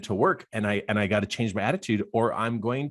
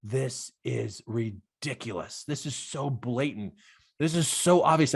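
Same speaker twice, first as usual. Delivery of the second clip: laughing to himself. Retold or imitated. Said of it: "I'm laughing to myself going".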